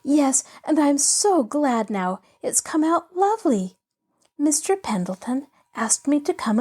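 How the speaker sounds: a hint of a bright young girl, bubbling over; lightly voiced eager girl. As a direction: let the girl's excitement spill out. Pollyanna's glad chatter.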